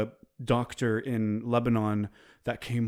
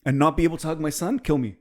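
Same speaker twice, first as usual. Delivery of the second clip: touched; 5 semitones higher than usual. Real, not acted. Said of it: "now I'm getting emotional".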